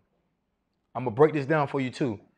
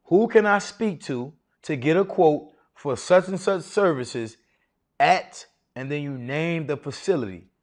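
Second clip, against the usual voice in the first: confident and authoritative. Shown as a demonstration. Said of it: "Y'all ready?".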